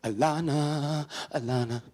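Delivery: drawn-out loud call of a name. Real, not acted. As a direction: call out for someone, stretching the name. Calling out to someone off stage.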